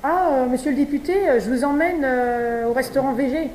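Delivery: lobbyist's invitation. Acted. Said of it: "vous imaginez".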